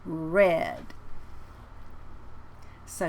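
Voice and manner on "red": "red" with lips in a tight circle. Shown as a demonstration. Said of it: "we do a really tight circle".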